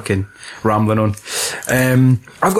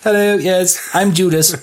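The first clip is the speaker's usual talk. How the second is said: chirpy mock introduction, pitched up; mock Lando; 6 semitones higher than usual. Podcaster mocking Lando as Judas, raised pitch.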